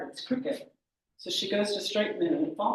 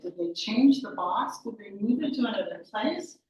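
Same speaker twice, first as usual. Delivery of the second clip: frustrated; 3 semitones higher than usual. Acted. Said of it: "She's so frustrated".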